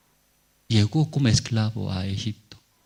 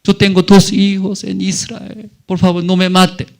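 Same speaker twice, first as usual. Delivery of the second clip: pleading for life; 8 semitones higher, 7 dB louder than usual. Retold or imitated.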